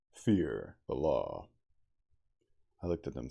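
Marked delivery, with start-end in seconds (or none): 0.1-1.5 commanding. Acted. Commanding the beast folk.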